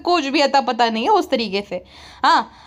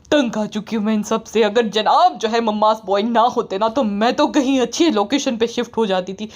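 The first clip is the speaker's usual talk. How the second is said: lower, fed-up complaining wife; lightly lowered sulky wife; grumbling wife; 4 semitones lower than usual. Retold or imitated. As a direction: moan about the in-laws in a lowered voice. Wife's rant continues.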